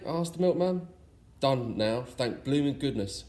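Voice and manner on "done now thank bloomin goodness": growled. Acted. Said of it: "growled Father Christmas".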